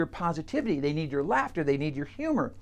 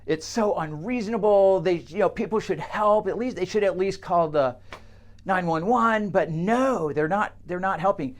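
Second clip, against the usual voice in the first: aggrieved complaint; 4 semitones higher than usual. Acted. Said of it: "the guy says".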